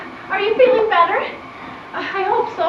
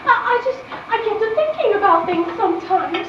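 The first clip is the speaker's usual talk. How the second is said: tearful laughing. Acted. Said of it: "Why are you crying?".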